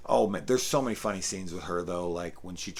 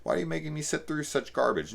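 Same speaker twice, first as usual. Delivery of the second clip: snooty critic; 8 semitones higher than usual. Retold or imitated. Mocking a snobbish film critic.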